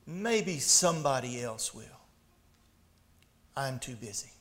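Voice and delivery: low, soft mock reluctance; hushed, trailing-off excuse; evasive excuse. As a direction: mumble it as if avoiding someone's eye. Congregation's evasive excuse, acted.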